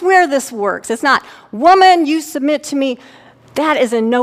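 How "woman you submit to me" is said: a hint of a bossy husband barking an order, louder and higher on Woman; lightly voiced husband demanding obedience; mock domineering husband. Wife mimics a husband misusing scripture, mock commanding.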